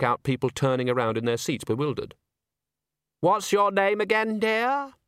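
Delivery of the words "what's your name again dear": high, deflated asking; the condescension knocked out of it; beaten-up voice. A narrator's reading. Humbled auditioner asking Agnes her name, deflated. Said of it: "had a distinct beaten-up sound".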